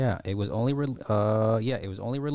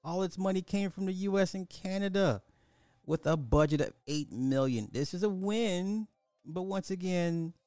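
much higher, fast mocking rant; 8 semitones higher than usual. Vlogger mocking international audiences in a high-pitched rant. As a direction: rant in a raised squeaky voice.

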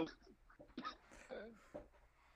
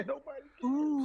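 laughing; 10 semitones higher, 6 dB louder than usual. Acted. Mocking repeat, laughing.

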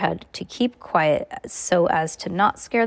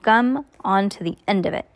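story narration. A narrator's reading. Reading a book to child.

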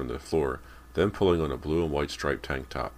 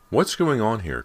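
loud, higher-pitched demand; 7 semitones higher, 6 dB louder than usual. A narrator's reading. Girl amid the breakfast uproar, demanding. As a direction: demand an explanation. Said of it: "Cody demanded".

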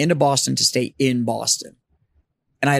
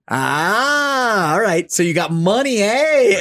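high, louder imitation of a Boston cab driver's accent; mock Boston cabbie accent, raised pitch; 6 semitones higher, 3 dB louder, much slower than usual. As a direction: ham up a local Boston cabbie teasing. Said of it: "but we got a local".

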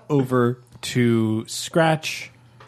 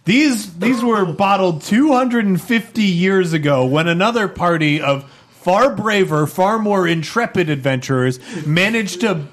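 measured, dramatic scene-setting that builds; game master narration; 5 semitones higher than usual. Acted. Game master unleashing a horror on the players, dramatic narration. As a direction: narrate a looming horror, pitch rising toward the end.

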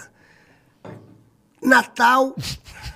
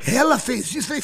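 ordinary talk

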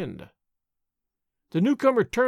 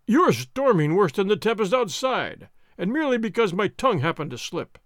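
blustering soldier. Acted. Sergeant praising the nobleman to the tavern, blustering. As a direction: bluster and flatter, then challenge the room.

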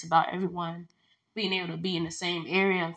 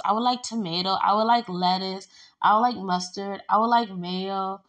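fussy ordering. Retold or imitated. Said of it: "even when I'm like".

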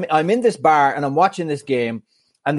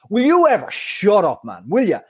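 higher mock angry retort; mild mock telling-off, pitched up; retold outburst; 4 semitones higher than usual. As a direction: snap back at the heckler, retelling it. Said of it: "I turned round. I said".

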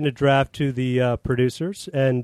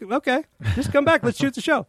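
pitched way up, coaxing him back; high mock pleading; 10 semitones higher than usual. Director coaxing the star back, high mock plea. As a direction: plead high, half-joking. Retelling his own pleading.

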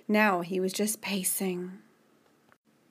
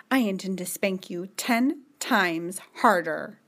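stern scolding. Acted. Julie's stern lines to Charlie.

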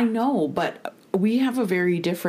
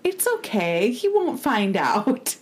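mock reassuring; 5 semitones higher than usual. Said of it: "And she's like".

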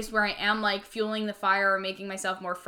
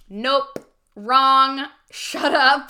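louder, curt dismissal; firm shutdown; 4 semitones higher, 8 dB louder, much slower than usual. Retold or imitated. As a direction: shut the doubts down hard. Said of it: "literally just be like".

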